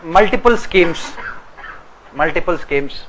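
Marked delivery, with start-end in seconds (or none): 0.0-1.1 slow, deliberate dictation pace. Shown as a demonstration. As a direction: spell out "multiple schemes," slowly so students can write. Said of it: "dictating slowly for students".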